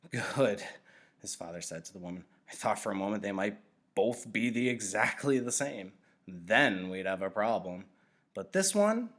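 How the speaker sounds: a kindly nurturer chatting to his assistant, a hint of a voice; cheerful father nurturer.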